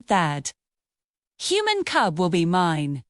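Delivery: low, menacing growl to himself; low tiger growl, swearing to catch the cub. A narrator's reading. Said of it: "he growled to himself".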